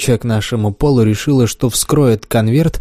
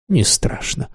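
whispered; 2 semitones higher, 5 dB quieter, slower than usual. Acted. Florence dismisses the worry.

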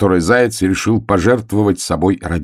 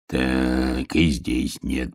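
низкое тихое бормотание; бормочи низко, про себя; бормотание волка; 6 semitones lower, 7 dB quieter, much slower than usual. A narrator's reading. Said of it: "бормотал волк". (волк бормочет под нос)

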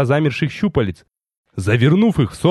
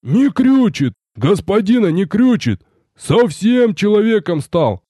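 overjoyed soldier; 8 semitones higher, slower than usual. Acted. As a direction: shout it out in joy. Рикар ликует.

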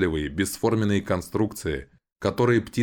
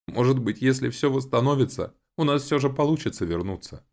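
rising, hopeful, higher; 8 semitones higher than usual. A narrator's reading. Agata asks her brother, voice lifting with hope. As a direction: reach for a last chance. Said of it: "с надеждой в голосе".

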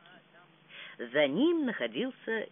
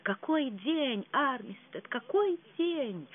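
rapturous; 7 semitones higher, slower than usual. Acted. Perdita rapturous to her maid.

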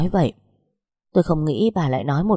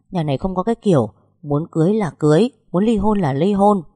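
mắng gay gắt; 3 semitones higher, 3 dB louder than usual. Acted. Mẹ chồng mắng con trai.

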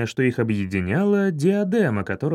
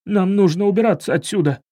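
strained; 4 semitones higher, 4 dB louder, faster than usual. Acted. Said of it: "сдавленно произнёс он".

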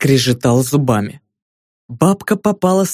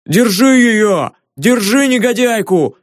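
high, slow yell for help; 8 semitones higher than usual. A narrator's reading. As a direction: cry out to catch the thief. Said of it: "заорал привратник".

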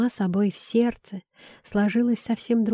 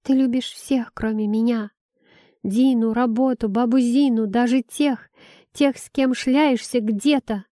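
higher, rising angry accusations; angry child; 4 semitones higher than usual. Acted. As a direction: throw the blame at her, upset. Son's angry accusations at mother.

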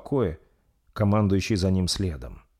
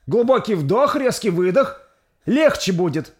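put-on insistent old midwife; 13 semitones higher, 7 dB louder than usual. Midwife urging during birth.

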